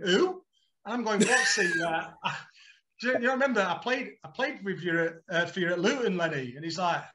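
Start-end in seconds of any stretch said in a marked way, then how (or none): 0.0-0.4 much higher and louder, baffled; a blank, high-pitched who; puzzled who. Retold or imitated. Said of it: "He's going". 1.2-6.5 pleading. Retold or imitated. Pleading to be remembered on phone.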